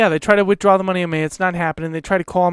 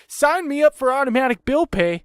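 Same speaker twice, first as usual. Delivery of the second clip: higher-pitched exasperated parody; mocking indignation; 6 semitones higher than usual. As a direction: throw their sales demand back at them. Mocking the company's sign-up demand.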